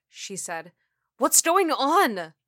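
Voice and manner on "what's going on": high, loud, drawn-out cry; panicked. Acted. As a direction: demand answers in rising panic. Panicking at approaching threat.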